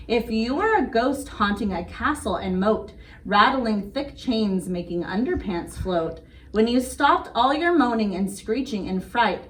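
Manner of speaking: put-on sing-song read-aloud rhythm for kids; bedtime story reading. Reading a bedtime rhyme to little kids, gentle sing-song.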